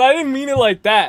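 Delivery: ordinary delivery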